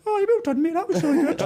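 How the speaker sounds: mock praise. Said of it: "he's like".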